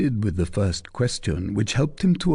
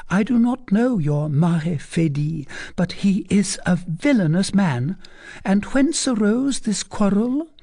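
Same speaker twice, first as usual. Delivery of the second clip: put-on a higher, teasing young lady's voice; coy young lady; 9 semitones higher than usual. A narrator's reading. Young lady teasing the captain, coy and higher. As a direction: play the coy cousin pressing her question. Fleur de Lis voiced high.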